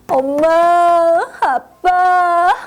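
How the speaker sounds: slow, whimpering call for mom and dad; tearful call. Acted. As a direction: call out like a scared little boy. Scared child calls parents.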